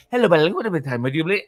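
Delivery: lightly imitated fake Spanish accent; mock Spanish accent. Husband quoting his wife on the phone, mock Spanish accent. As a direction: imitate a put-on Spanish accent, half gibberish. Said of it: "she talks to me like this".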